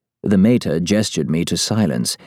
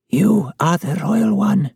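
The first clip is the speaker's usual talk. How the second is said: put-on high, slow, frail old woman; thin high voice, drawn out slowly; cracked old woman's voice; 12 semitones higher, slower than usual. A narrator's reading. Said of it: "her voice a cracked whisper".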